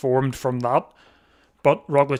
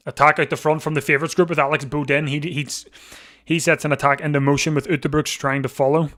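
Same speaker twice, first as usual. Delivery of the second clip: louder, urgent race commentary; live play-by-play; 5 dB louder than usual. Real, not acted. Commentator tells viewers of an attack from the favourites group, urgent play-by-play. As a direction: call the attack as it happens.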